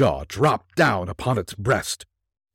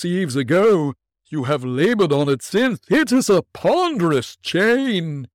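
unearthly voice; 8 semitones higher, 4 dB louder than usual. Acted. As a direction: intone like a chained spirit. Ghost continues.

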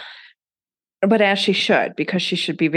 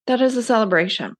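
excited; 6 semitones higher, faster than usual. Shown as a demonstration. Repeats phrase for emphasis.

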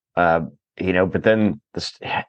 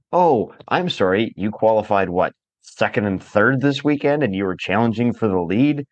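sarcastic mockery; 2 semitones higher than usual. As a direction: needle him with fake sympathy. Sarcastic jab at Lewis's complaints.

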